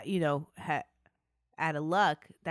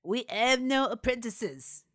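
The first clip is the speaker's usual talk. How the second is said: a hint of a cold, dismissive mistress, a little slower; lightly acted Elizabeth; 5 semitones higher, 4 dB louder than usual. Elizabeth turning away the stepmother, mildly acted. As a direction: brush her off flatly. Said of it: "said Elizabeth".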